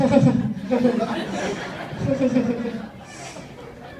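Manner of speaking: long odd off-putting cackle; weird laugh. Shown as a demonstration. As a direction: laugh weirdly to repel a guy. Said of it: "ladies, if you're ever talking".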